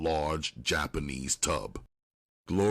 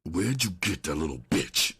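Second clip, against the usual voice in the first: demanding. A narrator's reading. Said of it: "he demanded".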